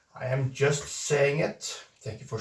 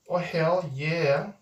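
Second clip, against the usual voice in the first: slow drawn-out "Oh, hell yeah"; 2 semitones higher, much slower than usual. Shown as a demonstration. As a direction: stretch "Oh, hell yeah" out slowly, savouring it.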